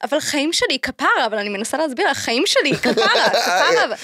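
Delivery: fast, pleading Hebrew rant; Matan impression. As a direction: play Matan explaining in a rush. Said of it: "I can do a Matan impression".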